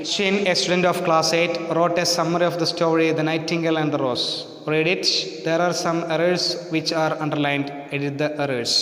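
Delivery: slow, careful reading of the rule; slow, deliberate classroom reading; textbook reading. Acted. Reads exercise text aloud.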